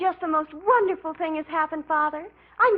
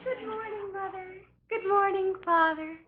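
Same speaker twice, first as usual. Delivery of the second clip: dreamy; 4 semitones higher, 4 dB quieter than usual. Acted. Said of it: "you sound so strange this morning".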